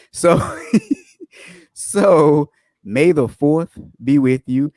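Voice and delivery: slow, giggly sign-off greeting; laughing, drawn out. Shown as a demonstration. Host repeats the Star Wars greeting to viewers, slow and laughing. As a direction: stretch it out through a laugh.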